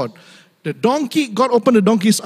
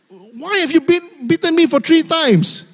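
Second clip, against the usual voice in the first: talking donkey; 10 semitones higher than usual. Acted. Donkey confronting the master who beat it, talking-donkey voice. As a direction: play an aggrieved donkey, much higher. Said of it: "The donkey can talk, just like the movie".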